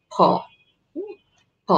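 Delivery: ফ said with both lips closing, breathy burst; careful ফ demo. Shown as a demonstration. Teacher showing students how to say ফ, lips together. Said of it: "দুই ঠোঁট মিলিয়ে উচ্চারণ করতে হবে".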